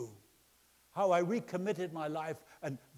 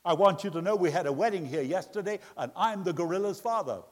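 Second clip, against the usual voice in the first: loud, indignant mock complaint; emphatic retold confrontation; confronting big man; 3 semitones higher, 6 dB louder than usual. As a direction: imitate an offended man setting someone straight. Big man's complaint continues.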